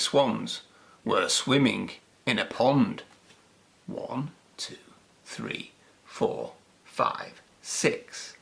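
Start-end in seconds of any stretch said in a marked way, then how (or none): 3.9-8.4 tag. A narrator's reading. Counting the swans.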